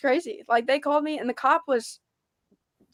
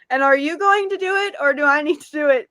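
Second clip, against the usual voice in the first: retold demand, higher and louder; 5 semitones higher, 6 dB louder than usual. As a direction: press him hard for an answer. Demanding the attendant pump diesel.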